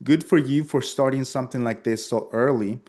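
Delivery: chuckling, playful compliment; laughing flattery. Shown as a demonstration. Salesman teasingly flattering client about her age, laughing.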